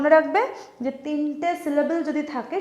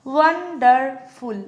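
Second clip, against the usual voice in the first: "ওয়ান্ডারফুল" slowly in three distinct parts; syllable by syllable; 4 dB louder, much slower than usual. Shown as a demonstration. Teacher pointing out three syllables, syllable by syllable. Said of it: "তিনটে".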